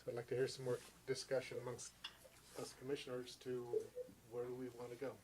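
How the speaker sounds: muffled, talking behind a mask; through a face mask. Real, not acted. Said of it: "I'm just talking through a mask".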